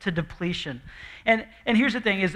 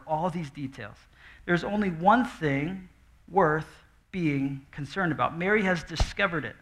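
gentle reassurance; 2 semitones lower than usual. Acted. Jesus gently reassuring a worried Martha, tender. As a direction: speak like a kind teacher calming her.

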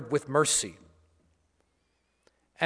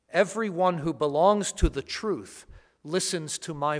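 Gospel reading. Acted. Gospel proclamation at Mass.

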